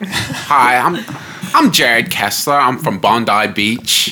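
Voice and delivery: lightly put-on Aussie introduction, slowing at the end; Australian accent. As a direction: try an Australian accent for a contest. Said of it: "best Australian accent".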